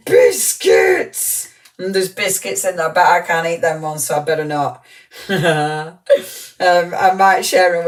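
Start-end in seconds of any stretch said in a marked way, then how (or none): 0.1-1.5 breathy delighted whisper of discovery; excited whisper. Real, not acted. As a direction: whisper it like a found treat. Spots biscuits in the parcel.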